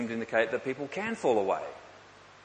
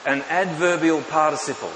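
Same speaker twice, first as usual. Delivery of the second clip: repeated louder for the room; louder repeat after the sound check; turned up louder; 7 dB louder than usual. Real, not acted. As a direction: say it again with more volume. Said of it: "turn the sound up a little bit".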